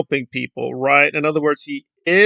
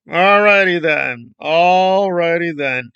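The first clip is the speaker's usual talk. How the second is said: mock resignation; slower than usual. Mock drawn-out catchphrase reaction.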